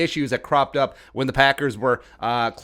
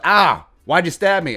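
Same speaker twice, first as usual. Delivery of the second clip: slow, louder, higher pained cry; mock stab victim; 4 semitones higher, 6 dB louder than usual. Stabbing victim asking his attacker why, hammed-up. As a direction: drag it out like you just got stabbed. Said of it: "And you're like".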